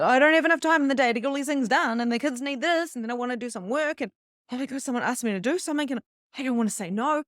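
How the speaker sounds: high, fast, overwhelmed rant; frantic rush. Retold or imitated. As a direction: rattle it off like everything's too much at once. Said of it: "I'll say to my husband even, if I start".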